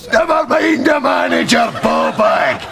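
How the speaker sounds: sudden high bellow at the cashier; angry shout. Acted. Big man bellowing at the cinema worker, angry shout. Bouncer roars back at the cashier.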